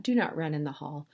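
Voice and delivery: restrained, easygoing reminder; nice request. Shown as a demonstration. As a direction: say it nicely, without raising the voice. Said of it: "We could say it nice like that".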